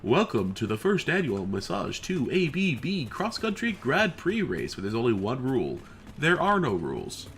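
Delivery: booming hype announcer voice; fighting game announcer. Pretend. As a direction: announce the race like an arena host. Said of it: "start to talk into an announcer voice".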